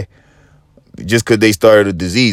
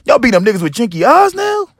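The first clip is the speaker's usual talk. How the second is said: high, strained incredulous yell; yelling at attackers; 13 semitones higher than usual. Retold or imitated. Comic yelling at a crowd chasing his friend, high and strained. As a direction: shout across the street that he's not even Chinese. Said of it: "I'm yelling at these niggas like".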